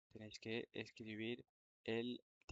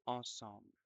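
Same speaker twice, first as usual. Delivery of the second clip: dictation reread. Shown as a demonstration. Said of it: "Je vais relire la dictée".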